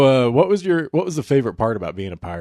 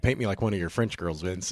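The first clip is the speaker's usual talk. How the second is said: soft Titanic line; 7 dB quieter than usual. Pretend.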